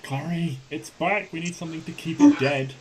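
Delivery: loud, urgent call to an ally; rushed battle shout; shouted warning. Acted. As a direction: yell that the troll is back. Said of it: "Neo will shout".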